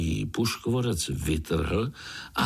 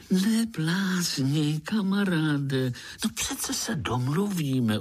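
ordinary delivery

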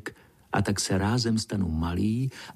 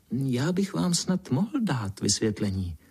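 timid; 3 semitones higher than usual. Acted. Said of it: "promluvil nesměle".

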